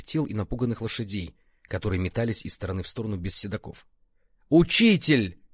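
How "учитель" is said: hoarse strained call, louder and higher; хриплый надсадный крик. A narrator's reading. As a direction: rasp it out between coughs. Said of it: "надсадно кашляя прохрипел он". (надсадный хрип с кашлем)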